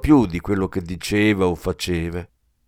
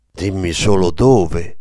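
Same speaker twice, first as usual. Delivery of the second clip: sinister order; 3 semitones lower, 5 dB louder, slower than usual. Acted. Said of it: "intimò Kleber con un tono così sinistro".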